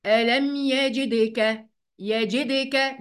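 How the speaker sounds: "يجدك" chanted with a bouncing release on the consonant; qalqala. Shown as a demonstration. Teacher modelling the rule for students, "يجدك" with bounced qalqala. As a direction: echo the stopped consonant in "يجدك". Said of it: "قلقلة".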